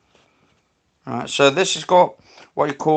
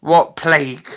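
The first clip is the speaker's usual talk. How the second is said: louder, projected question; raised voice, press the spirit for detail; calling out to spirits; 3 semitones higher, 7 dB louder than usual. Real, not acted. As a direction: ask the spirit aloud.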